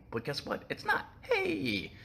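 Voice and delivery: laughing through the words; a laughing cry of Hey up high. Real, not acted. Laughing at own rant.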